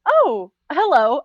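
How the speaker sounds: slow, innocent little greeting; feigned casual surprise. Acted. Student caught following someone, feigning innocence. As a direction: act as if it's pure coincidence. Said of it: "as if she wasn't fucking following".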